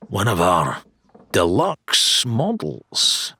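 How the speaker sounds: slow, savoured salesman line; showman dealer. Acted. Wilbur showing his deluxe swords, savoring the pitch. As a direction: dangle the deluxe model.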